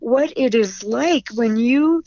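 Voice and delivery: fighting back real tears as she remembers; on the verge of tears. Real, not acted. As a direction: emotion rising in the throat, near crying. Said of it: "oh, I'm gonna cry".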